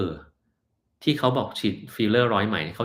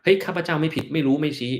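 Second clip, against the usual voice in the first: mock defiant denial; 7 semitones higher than usual. Mocking a boss who denies fault to the public, haughty and high. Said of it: "ทำว่า".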